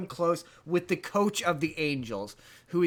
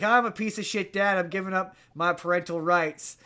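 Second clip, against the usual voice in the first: a hint of a Southern dad giving up; Southern accent. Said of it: "I don't know why I keep giving him a southern accent".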